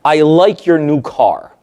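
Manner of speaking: a slow, plain compliment meant kindly; just say it as a genuine nice remark; sincere compliment. Retold or imitated. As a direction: brother admiring the new car, kindly meant. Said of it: "That's a brother complimenting my client".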